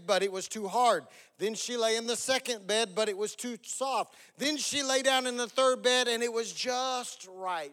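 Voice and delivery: lively, slightly lifted storyteller voice; fairy-tale narration. Acted. Pastor retells Goldilocks to congregation, storytelling voice. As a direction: tell it to children as a bedtime tale.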